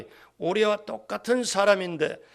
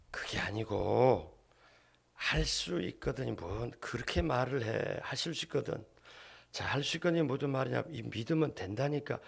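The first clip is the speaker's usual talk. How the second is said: mild, low-key correction; 6 semitones lower, 7 dB quieter than usual. Acted. Jesus gently corrects the doubting father, low and soft. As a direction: correct him quietly, voice well down. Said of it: "예수님이 이런 톤으로 얘기하신".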